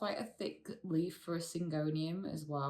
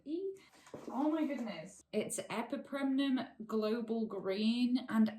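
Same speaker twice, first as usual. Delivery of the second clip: excited; 4 semitones higher than usual. Real, not acted. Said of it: "I'm so excited".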